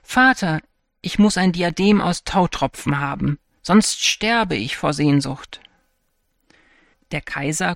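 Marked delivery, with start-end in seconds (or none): 0.0-5.6 demanding call. Acted. Princess calls her father, demanding a dewdrop diadem.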